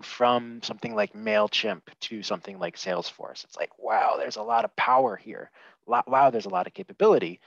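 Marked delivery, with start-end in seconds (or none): 5.9-7.4 excited wow. Real, not acted. Amazed by the new tool's power.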